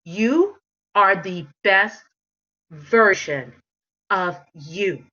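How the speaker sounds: slow, with pauses between you, best and version; drawn-out emphasis. Shown as a demonstration. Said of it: "right now".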